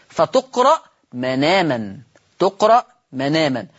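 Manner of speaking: مناما with the hamza dropped and its fatha moved onto the nun, manāmā; read with transfer. Shown as a demonstration. Quran teacher showing the class, manāmā joined. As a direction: slowly read مناما as one joined word. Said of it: "حطها على النون".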